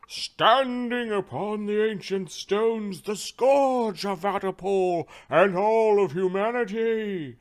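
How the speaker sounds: slow, loud, high-pitched drawn-out proclamation; arena announcer. Acted. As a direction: build to a huge stretched shout on the last word.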